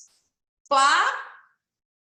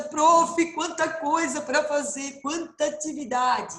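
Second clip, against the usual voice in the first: student voice; 2 semitones higher than usual. Pretend. Voicing an overwhelmed student.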